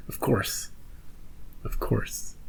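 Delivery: whispered realization. Real, not acted. Laughing realization, whispered to self.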